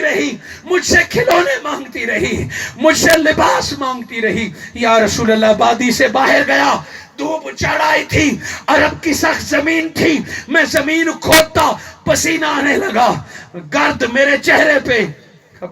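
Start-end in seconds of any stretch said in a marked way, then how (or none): 5.5-15.1 forceful sermon storytelling; impassioned preaching. Acted. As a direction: preach it out line by line. Preacher retells at full force.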